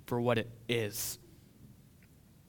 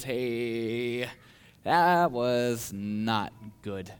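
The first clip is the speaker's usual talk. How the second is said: slow, lower voice of conscience; gentle conviction; 3 semitones lower, much slower than usual. Acted. The Lord speaking to a tender conscience, gentle conviction. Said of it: "the Lord often speaks to us".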